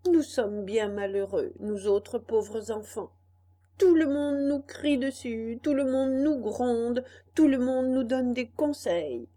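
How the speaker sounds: lightly voiced indignant boy; a hint of a cocky puppet; puppet boy grumbling. Pinocchio's long inner monologue.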